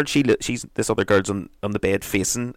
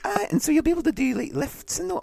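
very high chat-show host parody; hammed-up high-pitched TV host; Lorraine Kelly. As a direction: interview in a squeaky mock presenter voice. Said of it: "Lorraine Kelly, hun, so tell me".

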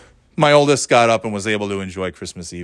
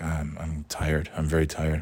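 lower, much softer mopey whine; imitating a drained, mopey kid; 5 semitones lower, 10 dB quieter than usual. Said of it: "moping around like".

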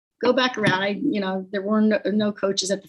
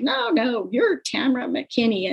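pedestal tone; 4 semitones higher than usual. Retold or imitated. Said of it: "that pedestal tone of voice".

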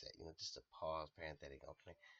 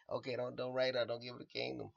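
mock warning; 6 semitones higher, 11 dB louder than usual.

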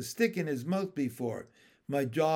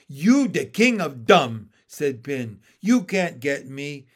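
taunting frog; 2 semitones lower, 7 dB louder than usual. Acted.

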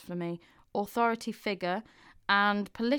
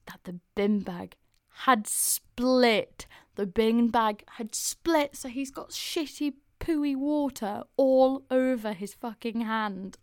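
building disgust; 2 semitones higher, 5 dB louder, slower than usual. Real, not acted. Climax of gross story.

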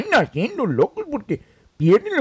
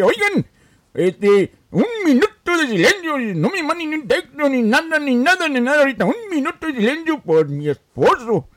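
mock wife announcement; 4 semitones higher than usual. Wife calls on her friends for a moment of silence, hammed-up and higher.

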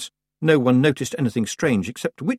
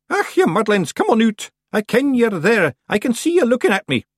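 put-on loud, high old witch call; raised voice; 13 semitones higher, 5 dB louder than usual. A narrator's reading. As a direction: call out sharply to the hidden Feegles. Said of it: "raised her voice".

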